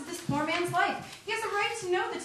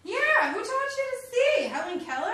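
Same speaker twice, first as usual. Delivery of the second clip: loud mocking jab; 7 semitones higher, 5 dB louder, faster than usual. Mocking bad photo.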